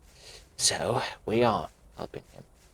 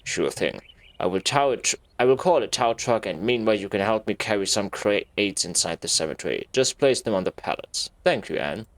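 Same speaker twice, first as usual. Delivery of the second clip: creepy groundkeeper; 4 semitones lower than usual. Acted. Groundkeeper Robert giving Anne orders, low and creepy. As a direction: sound sinister and polite. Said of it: "could you be a little more creepy".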